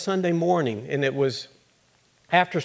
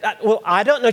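higher and louder, helpless; flustered answer; 7 semitones higher, 5 dB louder, faster than usual. Acted. Daughter cornered by her mother, high and flustered. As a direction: stumble out that you don't know.

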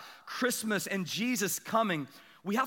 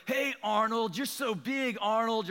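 mock neighbor-kid taunt, a little higher; imitated teasing; 5 semitones higher, slower than usual. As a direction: tease like a kid calling out. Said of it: "they were teasing him".

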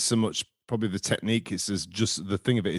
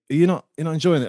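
Natalie asking; 6 semitones higher, 6 dB louder than usual. Retold or imitated. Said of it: "Natalie's saying to me".

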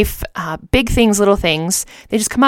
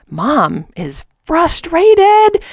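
mocking kids; 10 semitones higher, much slower than usual. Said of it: "they were like".

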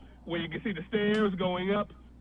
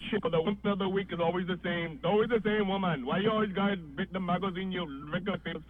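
newsstand guy. Retold or imitated. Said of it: "I said something like".

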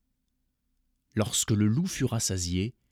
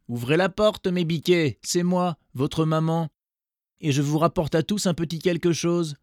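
high, gentler coaxing call; wolf with softened voice; 7 semitones higher, 4 dB louder than usual. A narrator's reading. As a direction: sweet-talk them to open up. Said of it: "sa voix devint en effet plus douce".

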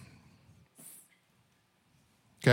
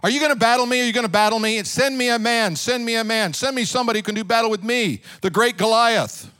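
mocking giant's challenge, pitched up; Goliath taunting; 4 semitones higher than usual. Goliath jeering at the Israelite army. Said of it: "he taunts them".

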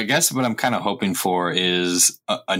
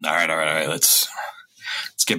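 breathy hushed whisper. Acted. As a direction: hush her down in a whisper. Hushed calming in public.

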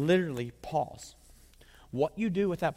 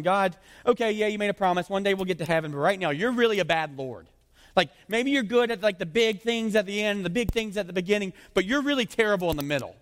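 loud, raised-pitch griping at God; exasperated complaint; 5 semitones higher, 5 dB louder than usual. Acted. Grumbler telling God he is failing, exasperated complaint. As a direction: complain indignantly, pushing the volume.

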